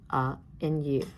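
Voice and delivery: short "uh", then U as its letter name "you"; short then long vowel. Shown as a demonstration. Teacher reviewing vowel sounds with class, short then long U. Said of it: "review short and long vowel sounds".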